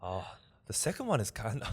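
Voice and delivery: attempted Northern English accent; amateur go at Northern English. Shown as a demonstration. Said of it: "I'll do a Northern English".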